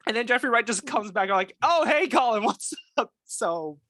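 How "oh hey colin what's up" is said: mock friendly greeting. Retold friendly greeting on recognizing him.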